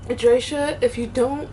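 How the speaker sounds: pushing the words out through tears; tearful. Real, not acted. Quoting her mother on the phone, tearful. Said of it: "let me pull myself together".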